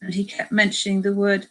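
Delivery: measured travel memoir reading; story narration. A narrator's reading. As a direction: read the account aloud to listeners. Reads a book extract aloud.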